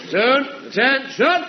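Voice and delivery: barked drill command. Acted. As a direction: bark the orders across the parade ground.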